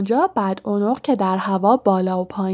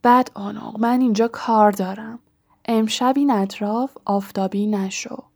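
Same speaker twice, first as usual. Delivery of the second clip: lightly wheezing, hoarse order; wheezy rasp. Acted. Harry as the Baron sending the poltergeist off, wheezy. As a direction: wheeze out a command. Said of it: "هری خسخس کنان گفت".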